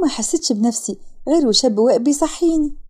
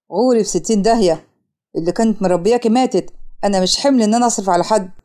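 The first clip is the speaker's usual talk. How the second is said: harsh father; 4 semitones lower than usual. Acted. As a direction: lower voice of a rejecting father. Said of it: "والأب محسن". (أب قاسي بيطرد بنته)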